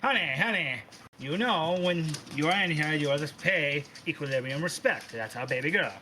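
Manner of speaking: lightly voiced mom calling out; a hint of a scolding mother, pitch swooping; mildly put-on bossy mom voice; brash mother. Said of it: "Your mom pokes her head in and goes".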